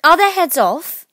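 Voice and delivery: high, loud, slow demand; bellowing queen's question; shouted question. A narrator's reading. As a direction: shout it imperiously. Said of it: "shouted the Queen".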